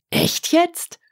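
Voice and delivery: leicht hohe Drachenstimme, ungläubig; kleiner Drache. A narrator's reading. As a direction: fragt nach wie ein verdutzter kleiner Drache. (hohe Stimme, erstaunt nachgefragt)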